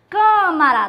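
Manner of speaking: "Câmara" with a loud opening "Câ"; stress on CÂ. Shown as a demonstration. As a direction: punch the first syllable of "Câmara". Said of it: "do mesmo jeito". ("Câmara" com o "Câ" bem marcado)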